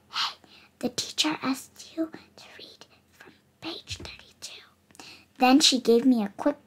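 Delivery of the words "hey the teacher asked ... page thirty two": soft unvoiced whisper, much softer. A narrator's reading. Cool bean whispering a classroom tip to the narrator, whispered. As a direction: whisper the tip close to his ear. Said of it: "leaned in close and whispered".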